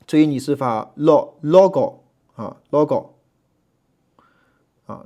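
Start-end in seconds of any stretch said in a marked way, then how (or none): 1.0-3.1 logo 重音在前 lo 上; stress on first syllable. Shown as a demonstration. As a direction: hit the lo of logo. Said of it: "这重音在前面". (重音放在 lo 上读 logo)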